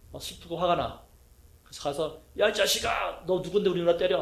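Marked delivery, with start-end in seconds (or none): 2.4-4.2 mock angry yell. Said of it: "이렇게 되는데".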